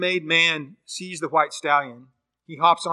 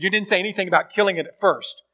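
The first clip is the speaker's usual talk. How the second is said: fast, louder, higher angry charge; angry accusation; 4 semitones higher, 5 dB louder, faster than usual. Retold or imitated. Ghost man angrily rebukes the angel, fast and loud. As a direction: throw the accusation back, heated. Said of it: "And the man gets angry".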